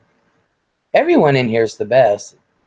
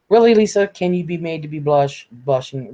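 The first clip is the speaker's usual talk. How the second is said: mock surprise; 2 semitones higher than usual. Real, not acted. Teasing viewer who claims to blush.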